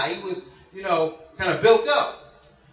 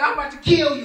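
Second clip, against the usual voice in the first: mock furious threat, pitched up; mad threat; 5 semitones higher, faster than usual. Angry Big J threatens the man who tackled him, mad threat. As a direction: imitate an enraged opponent. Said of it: "he got mad and he was ready to fight".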